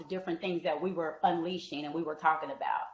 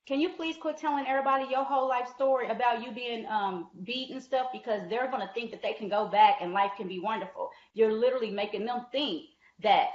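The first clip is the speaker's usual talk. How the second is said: higher, scolding supervisor voice, half-mocking; stern coordinator; 4 semitones higher than usual. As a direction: lightly impersonate a disapproving boss telling you off. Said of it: "the volunteer coordinator comes to me like".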